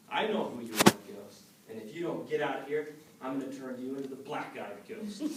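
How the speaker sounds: loud, defiant warning; bold threat. Acted. Young Noah facing down the ghost, loud and bold. Son confronts ghost boldly.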